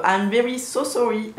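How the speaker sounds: put-on playful English apology with a French accent; mock-English sorry, French accent showing through; a light French-accented English sorry; her English accent. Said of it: "si vous avez aimé mon accent anglais".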